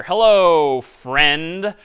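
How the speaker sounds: drawn-out, loud mock-friendly greeting; sarcastic. Shown as a demonstration. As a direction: stretch it out with sarcastic emphasis. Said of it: "maybe I'm being a little sarcastic here".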